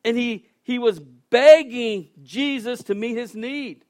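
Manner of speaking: loud, slowed preaching emphasis; preaching shout. Real, not acted. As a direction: drive it home from the pulpit. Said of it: "just like I'm shouting this morning".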